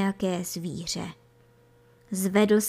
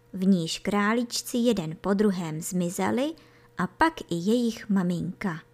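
plain reading voice

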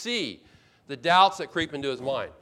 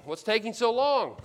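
higher-pitched mock impatience; impatient complaint; 6 semitones higher than usual. Abram waiting on God's timing, impatient complaint. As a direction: press God with an exasperated question.

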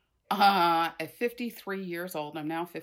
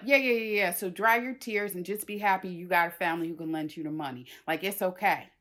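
logical mother; faster than usual. Retold or imitated. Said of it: "She's like".

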